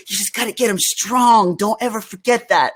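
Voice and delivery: put-on Southern accent. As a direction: mimic the mentor's Southern accent, firm advice. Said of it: "he had this, like, Southern accent".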